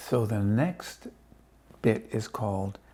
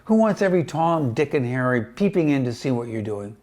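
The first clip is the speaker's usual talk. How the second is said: grumpy grumble; 6 dB louder than usual. Acted. Mister Twit grumbling.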